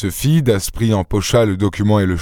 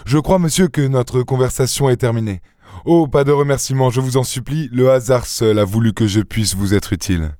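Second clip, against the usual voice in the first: courteous dismissal, opening higher in pitch; lightly voiced gentleman adventurer; 3 semitones higher than usual. Gentleman telling the banker their conversation is over, courteous. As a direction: close the business with polite finality.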